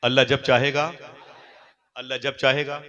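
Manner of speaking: preacher's rising chant; call-and-response. Shown as a demonstration. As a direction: lead the congregation in the refrain. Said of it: "ऊंची बोले।".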